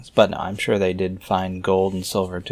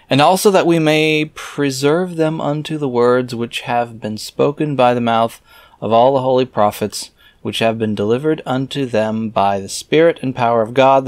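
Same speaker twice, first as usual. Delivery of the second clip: raised, measured reading voice; scripture reading; 3 semitones higher than usual. Acted. Reader reciting scripture verses aloud in a solemn reading voice. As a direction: read the old verses out with solemn weight.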